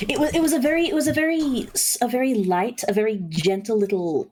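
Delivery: light, high, gentle posh voice; a touch of a refined old lady; posh lilt. Retold or imitated. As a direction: lift into a dainty proper lilt. Imitating posh great-grandmother.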